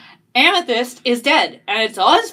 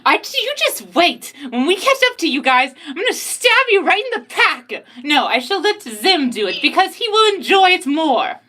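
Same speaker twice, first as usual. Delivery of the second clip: put-on high threatening girl voice; 3 semitones higher than usual. Julie threatening rival.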